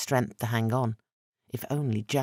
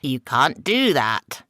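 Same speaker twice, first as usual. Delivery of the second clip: protest; 6 dB louder, slower than usual. Acted. Masked man protesting angrily.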